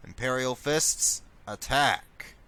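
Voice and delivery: loud order to charge; battle command. Pretend. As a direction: call the troops to attack. Commanding troops in game.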